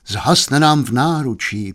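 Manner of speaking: mildly despairing, drawn out. Acted. Doctor over a dying priest, slow understated despair. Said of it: "pravil zoufale doktor".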